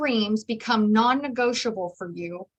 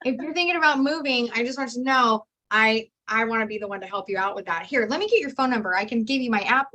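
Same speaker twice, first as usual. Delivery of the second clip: bold sales pitch. Retold or imitated. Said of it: "I just tell them what to do".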